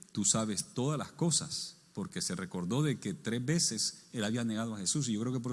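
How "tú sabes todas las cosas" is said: slow, subdued reply with mild sadness; understated sorrow; saddened. Retold or imitated. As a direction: answer slowly, a touch downcast. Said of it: "dice que se puso triste".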